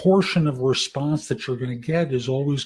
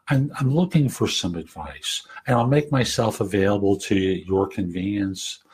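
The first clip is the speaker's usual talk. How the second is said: gentle, human, unhurried voicemail; softer gentle voice. Shown as a demonstration. Demo of a calm job seeker leaving voicemail, gentle and soft. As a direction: talk softly, one person to another. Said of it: "It's a softer voice. It's a more gentle voice".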